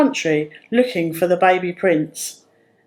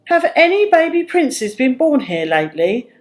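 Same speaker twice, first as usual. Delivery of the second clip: higher, worried asking; anxious question; 5 semitones higher than usual. A narrator's reading. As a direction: ask the herdsman with worry. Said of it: "questioned him anxiously".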